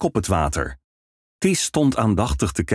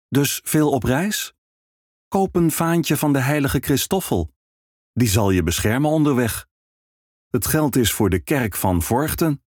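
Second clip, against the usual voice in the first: higher, coaxing priest voice; priest's pitch; 5 semitones higher than usual. Acted. Priest urging the traveling minstrel to buy a pennant, coaxing. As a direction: gently persuade the young minstrel to buy.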